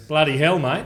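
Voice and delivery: lightly voiced Aussie exclamation; mock Australian accent. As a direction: imitate an Australian. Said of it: "Like the Australians were going".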